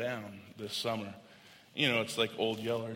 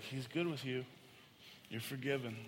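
put-on softly reassuring a child; retold comfort, kept soft; gentle reassurance; 9 dB quieter than usual. Father reassures his crying daughter.

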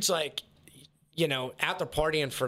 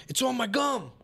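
panicked mock yelp; 11 semitones higher than usual. Retelling the tooth pull gone wrong, high panicked imitation. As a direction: squeak it out in panic.

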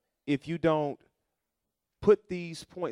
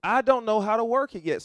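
higher and louder, driving it home; emphatic repeat; 7 semitones higher, 5 dB louder than usual. Shown as a demonstration. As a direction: preach it with full force. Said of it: "repeated for emphasis".

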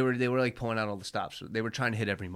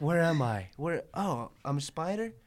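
put-on hyped anime girl; 7 semitones higher than usual. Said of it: "It's pretty much like".

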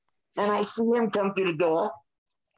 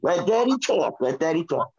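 soothing a pet; 6 semitones lower than usual. Real, not acted. Settling the dog down.

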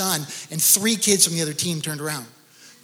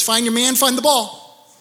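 coach calling out; 5 semitones higher than usual. Retold or imitated. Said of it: "Say that over and over again".

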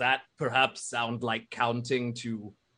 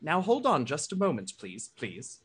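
Major Rafia voice; 5 semitones higher than usual. Acted. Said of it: "Major Rafia sort of interrupts".

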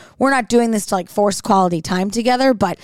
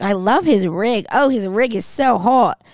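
put-on Australian accent. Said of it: "They're like".

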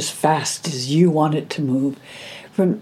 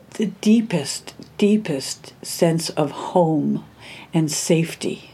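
tender; slower than usual. Real, not acted. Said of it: "I'm doing it now".

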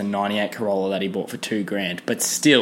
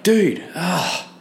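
higher-pitched mock disgust at a friend; disgusted outburst; 4 semitones higher than usual. Calling across the room to a nose-picking mate, higher, disgusted. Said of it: "and you'll be like".

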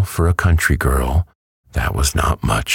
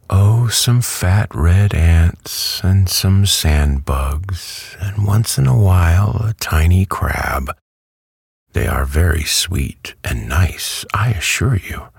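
lightly voiced contented hen, higher pitch; hen character, contented; 6 semitones higher than usual. A narrator's reading. Hen tells Dorothy what she eats, lightly voiced relish. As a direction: play a hen relishing her food.

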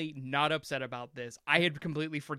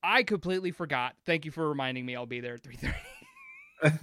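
bright, loud burst then slowing; overly cheerful reply, louder at first; cheerful quote; 3 semitones higher, 6 dB louder than usual. Retold or imitated. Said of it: "And I'm like".

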